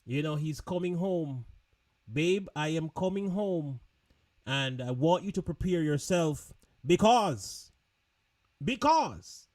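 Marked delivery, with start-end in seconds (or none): 2.1-9.5 lightly put-on deep man's voice; mock deep-voiced partner announcing himself. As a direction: play a guy on the phone, a touch low. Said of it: "in his deep voice".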